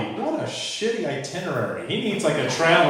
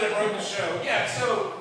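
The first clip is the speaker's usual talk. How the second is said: ordinary delivery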